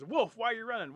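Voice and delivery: very high, very loud question; frantic shouted call. Acted. Animals catching up with Squirrel, hollering urgently. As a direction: holler after someone running off. Rabbit calls to running Wolf.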